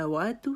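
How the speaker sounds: واتو with rounded lips on وا and thin تا. Shown as a demonstration. Teacher modelling واتو with rounded lips. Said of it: "وا کی دفعہ پھر اپنے ہونٹ گول کرنے ہیں".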